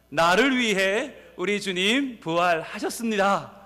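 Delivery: slow congregational proclamation; calling out. Real, not acted. Pastor leads congregation proclaiming the resurrection, calling out. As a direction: call it out slowly, drawing out the phrases. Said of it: "이렇게 외칩니다".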